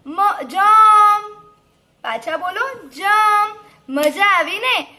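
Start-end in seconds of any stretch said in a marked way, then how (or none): 0.1-1.3 loud, high, drawn-out word; reading out loud. Shown as a demonstration. Teacher models a word for children, loud and drawn out. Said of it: "વાંચો જો જોરથી". 2.9-3.6 loud, high, drawn-out word; reading out loud. Shown as a demonstration. Teacher models a word for children, loud and drawn out. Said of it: "જોરથી બોલજો".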